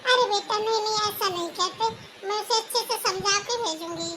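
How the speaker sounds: soothing mom who excuses her daughter, mildly played; lightly voiced old mother. Mother role reassures son-in-law. (हल्की सी बुज़ुर्ग माँ की आवाज़)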